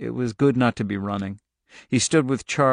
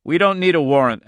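hard, louder, raised retort; edged with steel; 5 semitones higher, 6 dB louder than usual. A narrator's reading. Agent overruling the farmer, steely. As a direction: put steel in the voice. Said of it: "His voice was edged with steel".

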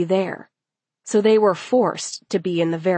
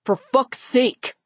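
slow, higher exasperated oath; exasperated, louder; 5 semitones higher, slower than usual. A narrator's reading. Boy fed up with the girls' answer, exasperated. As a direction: drag it out in exasperation. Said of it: "Amo said more loudly".

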